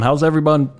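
put-on high-pitched, lightly babyish greeting; high little-kid lilt; infant-like voice. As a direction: slip into talking like an infant. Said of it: "talk like an infant".

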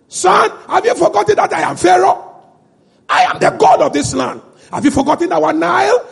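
boasting Pharaoh. Acted. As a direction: brag like a god-king to his son.

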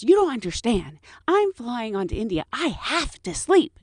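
whiny passenger. Retold or imitated. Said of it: "She goes".

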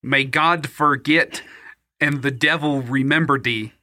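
a faint hint of Cyril's mixed accent, laying on a curse; Cyril impression. Poor fisherman curses the bandit, light Cyril accent. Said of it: "I'm gonna do my best Cyril impression".

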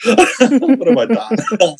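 slow, high, laughing through the words; real laughing dismay; laughing at what he set off. Real, not acted. Laughing at own mistake.

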